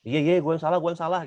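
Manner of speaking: high, impatient "iya, iya", not meant; dismissive apology. Retold or imitated. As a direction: toss off the apology to end the fight. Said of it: "Tetap masih ngera-, nggak ngerasa salah". (minta maaf ketus, nada tinggi tanpa tulus)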